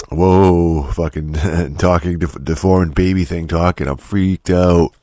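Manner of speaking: sarcastic drawn-out fake awe; mock amazement. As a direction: pretend to be freaked out, dragging the last words. Sarcastically pretends to be freaked out.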